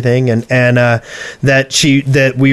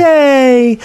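excited yay; 12 semitones higher than usual. Retold or imitated. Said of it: "I'm like".

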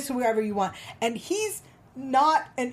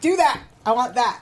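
eager demand; 3 dB louder than usual. Retold or imitated. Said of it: "I'm like".

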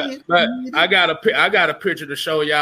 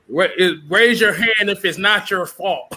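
laughing. Real, not acted. Reading a funny caption aloud.

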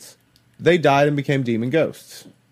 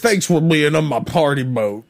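creepy party host. Acted. Party boat captain impression.

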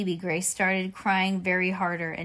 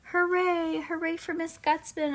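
high cheerful cheer, pitched up; shouting hooray; 9 semitones higher than usual. Acted. Girl cheers the milk lady, a high excited shout. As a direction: cheer for the snack lady like a thrilled kid. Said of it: "I shouted".

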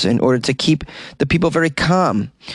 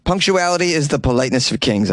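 stern proverb voice; 3 semitones higher than usual. Shown as a demonstration. Repeating the German saying, in a put-on solemn voice. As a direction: recite it like a grand old maxim. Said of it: "I've never heard that".

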